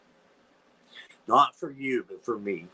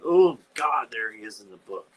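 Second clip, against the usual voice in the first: real revulsion; 3 semitones higher, 4 dB louder than usual. Real, not acted. Sees possum in book.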